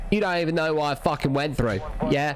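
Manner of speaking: low, mock-offended Aussie voice; Australian accent. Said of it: "Aussie accent".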